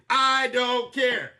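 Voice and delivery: slow, deliberate I don't care; defiant. Real, not acted. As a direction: spell it out with defiance. Defiant about the verdict.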